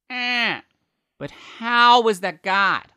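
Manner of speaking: high, loud, slow put-on Rob voice. Rob pushing back on Paul's answer, in the standard Rob voice. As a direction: drag out Rob's high probing question. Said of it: "the standard Rob voice".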